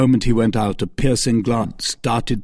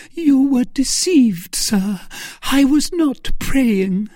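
high, loud, slow lament; voice broken by sobs; 4 dB louder, slower than usual. A narrator's reading. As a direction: deny it as if sobbing, drawn out. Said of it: "in a voice broken by sobs".

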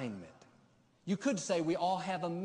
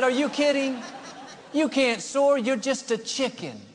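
higher mocking chicken-buddy laugh, louder; mocking laughter; 9 semitones higher, 10 dB louder than usual. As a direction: laugh him down like scornful chickens. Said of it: "They laughed like you are".

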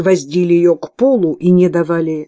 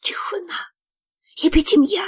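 hushing whisper; 12 semitones higher than usual. Acted. Nuns hush, penance warning.

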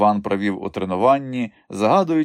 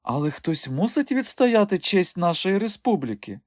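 persuading madame; 10 semitones higher than usual. Acted.

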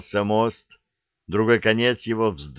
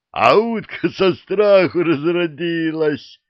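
guffawing; 7 semitones higher, 4 dB louder than usual. A narrator's reading. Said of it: "заржал дракон".

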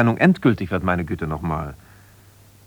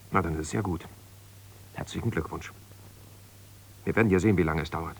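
cold sarcasm; 5 semitones lower, 10 dB quieter than usual. Acted. Ehestreit am Telefon, kalte Ironie.

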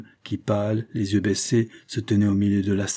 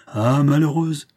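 slow, raised cry of dismay; aghast royal exclamation; horrified; 5 semitones higher, 4 dB louder, slower than usual. A narrator's reading. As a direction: draw it out high, appalled. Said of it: "reprit le roi épouvanté".

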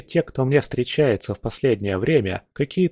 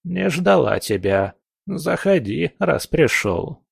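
creaky crone voice; 5 semitones higher, slower than usual. Acted. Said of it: "проскрипела она".

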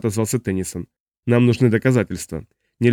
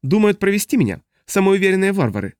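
higher, indignant alien gurgle; a higher, offended alien voice; 9 semitones higher than usual. A narrator's reading. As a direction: bubble out angry refusal. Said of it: "возмущённо булькал Смоки".

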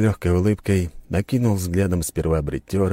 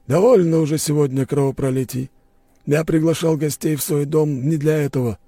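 calm commanding host; 10 semitones higher, 4 dB louder than usual. A narrator's reading. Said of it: "спокойный, но властный голос".

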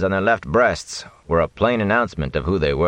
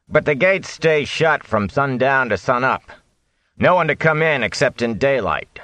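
higher, insistent gatekeeper voice; gruff watchman; 6 semitones higher than usual. Acted. Watchman explaining curfew to travelers, insistent voice. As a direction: lay down the rules to strangers.

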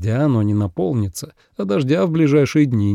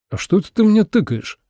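higher, offended outrage; indignant, pitched up; 9 semitones higher than usual. A narrator's reading. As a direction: bristle at the familiarity. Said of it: "возмутился У Минчжу".

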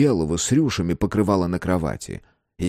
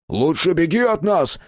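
high-pitched warning yell; high, narrated shout; 9 semitones higher, 3 dB louder than usual. A narrator's reading. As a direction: yell after someone to run. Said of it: "заорал Мэтт".

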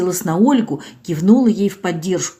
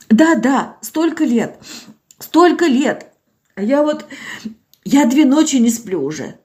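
put-on tearful old village woman; 3 semitones higher than usual. Old Zinaida to doctor Olga, plaintive and tearful. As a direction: voice an old woman close to tears. Zinaida tells her story.

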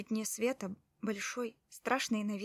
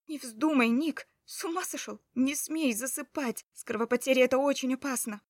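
frantic shout; 4 semitones higher, 6 dB louder than usual. A narrator's reading. Wife frantically shakes fainting husband.

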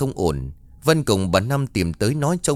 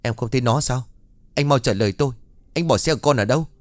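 angry glare; 3 semitones higher, faster than usual. Acted. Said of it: "Vân trừng mắt".

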